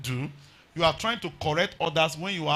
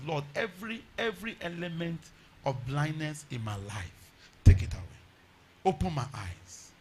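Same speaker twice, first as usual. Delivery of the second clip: hushed pleading prayer. Pretend. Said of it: "we are going to pray and beg God".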